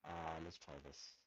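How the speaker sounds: crackling, distorted microphone; words breaking up on a bad mic; clipping distorted mic. Real, not acted. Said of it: "Your, your mic is crackling like, like, crazy".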